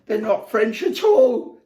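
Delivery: high, loud, laughing through "They're not French at all"; breaking into real laughter on the line. Real, not acted. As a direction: crack up on the repeat. Repeat dissolving into laughter.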